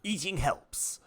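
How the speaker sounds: talking while chewing; mouth full. Acted. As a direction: speak through a mouthful of food. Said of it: "please don't talk with your mouth full".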